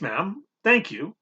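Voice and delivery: talking through toast; mouth full. Acted. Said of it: "my mouth full of toast".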